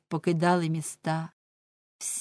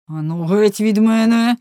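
loud, higher angry shout; 4 semitones higher, 10 dB louder than usual. A narrator's reading. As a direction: shout to drive him away. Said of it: "крикнув Егмонд". (гнівний гучний крик)

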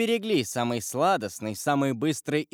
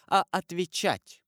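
stern; 6 semitones higher than usual. A narrator's reading. Prosecutor commanding his wife.

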